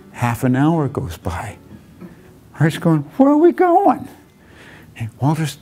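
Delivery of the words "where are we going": much higher and louder, impatient whine; exasperated. Retold or imitated. Arthur pressing his friend after half an hour, exasperated. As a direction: demand it, fed up with waiting.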